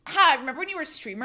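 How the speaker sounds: imagined late-night host teasing a guest; talk show host. Acted. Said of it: "they're gonna be like".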